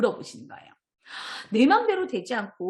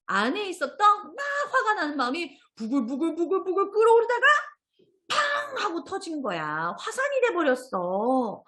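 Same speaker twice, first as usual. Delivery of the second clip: building volcanic eruption; 7 semitones higher than usual. Acted. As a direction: let the anger boil up and erupt.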